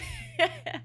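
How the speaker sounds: shrill burst of high laughter; real high-pitched cackle. Real, not acted. Breaks up after "vomiting.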